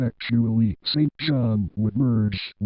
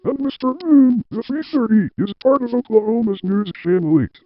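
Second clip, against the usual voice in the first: louder, higher stern boss lecture; 9 semitones higher, 4 dB louder than usual. Acted. Station boss lectures Mister Tim in his office, louder and stern. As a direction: lay down the law to the staff.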